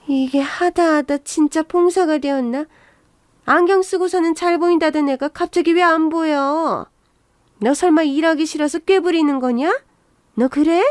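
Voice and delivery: lightly voiced, exasperated mother-in-law; a touch of suspicious scolding; accusing mother-in-law. Mother-in-law accusing daughter-in-law of shirking, mildly exasperated.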